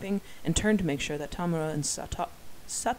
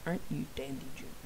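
quoted catchphrase; 3 semitones lower, 8 dB quieter, faster than usual. Retold or imitated. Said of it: "It is like".

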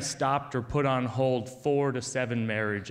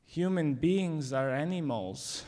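grave quote; 3 semitones higher than usual. Retold or imitated. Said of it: "that Elie Wiesel moment where I think".

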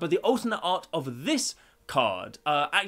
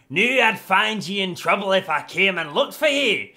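loud, higher-pitched Scottish dwarf; terrible Scottish accent; 4 semitones higher, 6 dB louder than usual. Acted. Reading Bruenor Battlehammer's flavor text in a terrible Scottish accent. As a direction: lay on a bad Scottish brogue. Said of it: "terrible accent".

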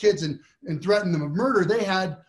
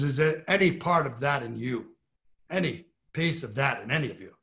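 lightly voiced Jerry Spence; 2 semitones lower than usual. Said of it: "I'll do my Jerry Spence impression".

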